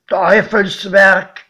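slow, loud, grim one-word verdict; godfather's verdict. A narrator's reading. Godfather faces the tunnel mouth, slow loud verdict. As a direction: drag out the condemnation. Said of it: "Mein Pate meinte nur".

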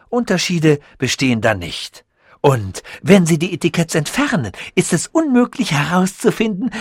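lightly voiced, pleased with his own genius; proud scientist voice. Sasul boasts to Tichy, lightly voiced proud inventor.

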